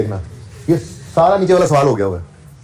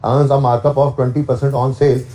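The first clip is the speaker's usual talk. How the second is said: slow, stressed reading with weight on sale; teacher reading the wording slowly; slow dictation; much slower than usual. Shown as a demonstration. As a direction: drag each word out. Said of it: "sale कह दे".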